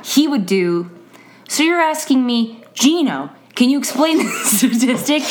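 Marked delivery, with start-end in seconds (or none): 1.5-5.2 lightly mimicked student repeating the question with a laugh; a hint of the earnest student stalling; imitating Gino. Teacher imitating her student restating a question, light mimicry. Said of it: "he would say his name and then repeat the question".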